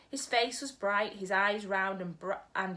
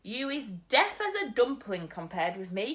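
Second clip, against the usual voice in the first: cried out; 2 semitones higher, 4 dB louder than usual. Acted. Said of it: "cried the B F G".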